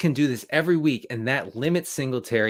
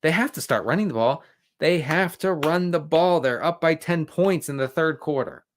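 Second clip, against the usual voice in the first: mocking announcers; 4 semitones higher than usual. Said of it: "And they say".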